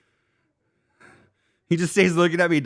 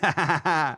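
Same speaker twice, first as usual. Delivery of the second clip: acted chuckle. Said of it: "I was like".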